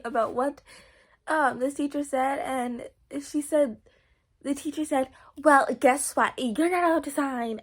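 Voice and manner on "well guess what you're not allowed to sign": a mild mock snap, a bit louder; teacher's retold attitude. Friend mimicking the teacher scolding her, mildly snippy. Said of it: "she said it in the exact attitude".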